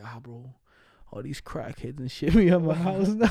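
laughing through a mock gripe; laughing it off while griping about the neighborhood; joking mock complaint. Laughing through a mock gripe about crackheads near the house.

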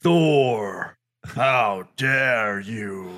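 slow menacing villain line; movie villain. Acted. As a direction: draw it out like a Marvel villain. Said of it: "villain in a Marvel film".

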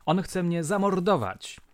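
a touch of a woman fearing for her life; terrified cry. A narrator's reading. Wounded woman crying that he will kill her, with mild mock panic. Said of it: "przeraźliwy krzyk".

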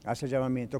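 softly voiced inner prompting; quiet inner voice. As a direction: voice the Lord's prompting hushed and low. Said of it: "el Señor me dice".

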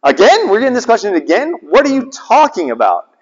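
fast, rising disbelief at the repeated question; mock a teacher fed up with being asked again; incredulous exasperation. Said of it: "he goes".

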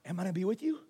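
small, doubtful question; hesitant, with a questioning lift; unsure. Acted. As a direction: lose your nerve and ask timidly. Acts out wavering when squeezed.

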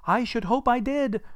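put-on high, loud boyish reply; cocky lad. Lad answering Scrooge's question, high emphatic boyish reply. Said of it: "replied the lad".

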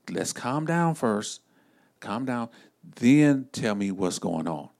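slow, hushed calm down; slow soothing voice to a panicked relative. Acted. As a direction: ease them down gently and slowly. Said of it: "family member call you panicking".

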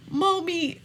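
high cooing pet name; a hint of baby-talk to a pet; mom's dog voice. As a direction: coo the name like talking to a dog. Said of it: "in this dog voice".

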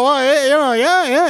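high, sheepish yeahs; bashful. Retold or imitated. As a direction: fake modesty about the lie. Bashful false confirmation.

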